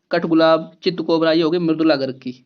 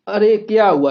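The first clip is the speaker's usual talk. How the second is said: sudden startled अरे, louder; surprised exclamation; 3 semitones higher, 4 dB louder, slower than usual. Shown as a demonstration. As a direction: exclaim as if something just went wrong. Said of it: "ये भी मन का एक भाव है". (चौंककर "अरे क्या हुआ")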